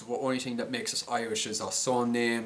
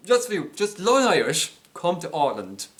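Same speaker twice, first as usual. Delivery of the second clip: much louder and higher, urging; excited urging; 7 semitones higher, 9 dB louder than usual. Real, not acted. Urging viewers to learn Irish, loud excited call.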